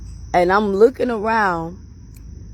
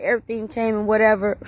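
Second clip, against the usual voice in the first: usual speaking voice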